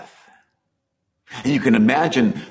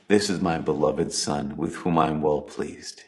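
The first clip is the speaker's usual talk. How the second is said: voice of God the Father; 5 semitones lower, 6 dB quieter than usual. Pretend. The Father's voice at baptism.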